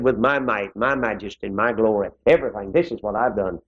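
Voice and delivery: strut through the boast, understated; boastful king. Retold or imitated. Nebuchadnezzar bragging of his might, low understated boast. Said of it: "He strutted around and said".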